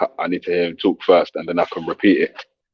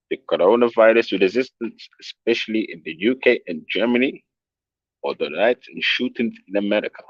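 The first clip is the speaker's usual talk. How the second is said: put-on amateur German accent, pitched up at first; 3 semitones higher than usual. Streamer reading a viewer's comment aloud, in a shaky attempt at a German accent. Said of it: "let me do it in my German accent".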